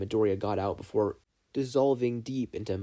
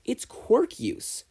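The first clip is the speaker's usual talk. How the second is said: high, slow, excited exclamation; louder; 11 semitones higher, much slower than usual. A narrator's reading. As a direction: stretch it out, bursting with realisation. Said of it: "He repeated it louder this time".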